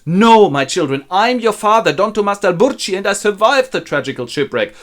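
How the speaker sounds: high, loud joyful proclamation; dramatic revelation. Acted. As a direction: announce yourself as the long-lost parent. Long-lost father reveals himself.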